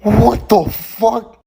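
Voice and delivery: mock calculator reply. Calculator firing back at the angry student, squeaky outrage. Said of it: "To which I receive".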